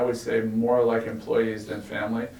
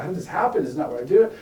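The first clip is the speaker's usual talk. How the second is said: higher, louder mock yell; imitating yelling; 7 semitones higher, 5 dB louder, faster than usual. Boss yelling at his finance guy in the meeting, mock yell. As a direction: replay the boss's exasperated yell, half-hearted. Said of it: "he's yelling at his".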